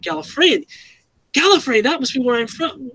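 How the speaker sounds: rising, wondering realization; exclaiming discovery. Retold or imitated. The Doctor realizing his home world, lightly wondering. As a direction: puzzle it out, then light up with a touch of wonder. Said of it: "where he exclaims it".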